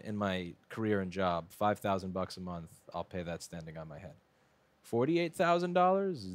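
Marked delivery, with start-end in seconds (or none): 4.8-6.3 mock disbelief.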